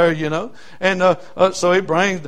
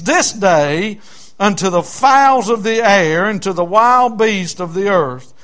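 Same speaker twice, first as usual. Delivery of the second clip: slow, weighty Bible proclamation; scripture reading; slower than usual. Acted. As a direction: proclaim the verse slowly, stretching the key words. Reads scripture to congregation.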